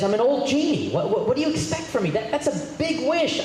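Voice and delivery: put-on a worn-out genie pleading he's too old for this. Joke genie to the woman, high and put-upon. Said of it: "And the genie says".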